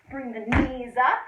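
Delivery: loud coaching call, knees up; coach calling out a cue. Shown as a demonstration. Kids' fitness coach calling out the move, loud. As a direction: bark the cue at the kids. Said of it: "coach calls jump cue".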